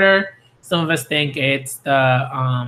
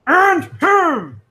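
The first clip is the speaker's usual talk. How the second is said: "And him." said louder and even higher, with a punch on "And"; louder excited; 14 semitones higher, 5 dB louder than usual. Real, not acted. A fan counting the next defeated enemy, louder and more gleeful. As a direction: shout it with more glee.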